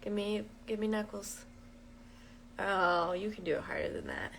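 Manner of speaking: hushed playful teasing; quiet playful. Real, not acted.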